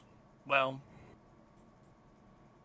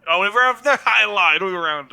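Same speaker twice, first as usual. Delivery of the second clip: laughing; 7 semitones higher, 16 dB louder than usual. Real, not acted. Caught miscounting the roll.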